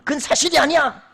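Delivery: a forceful 'that's not true!'; angry correction. Shown as a demonstration. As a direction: snap back to shut the lie down. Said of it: "더 세게 화를 내버려야죠".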